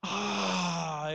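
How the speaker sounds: long breathy "ah" of relief; savoring sigh. Acted. The Lord smelling the worship he needed, savoring sigh. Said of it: "ve la adoración".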